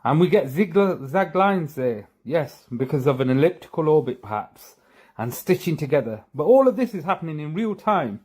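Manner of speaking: mock-earnest explaining, mildly sarcastic. Real, not acted. Explaining a supposed real-time Earth image, sarcastically. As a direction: feign belief with a touch of sarcasm. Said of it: "Please notice I'm being sarcastic".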